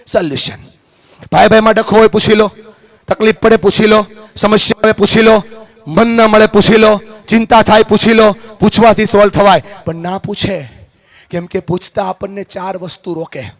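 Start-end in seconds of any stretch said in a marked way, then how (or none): 1.3-9.6 raised, rhythmic motivational refrain; insistent preaching. Real, not acted. Speaker urging quarrelling families to ask, insistent preaching. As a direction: hammer out each item of the list evenly.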